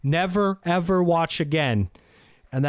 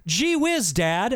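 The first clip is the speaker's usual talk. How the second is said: gee-whiz innocent youngster; wholesome 1950s kid; 3 semitones higher, slower than usual. Pretend. Voices kid from 1985 sitcom.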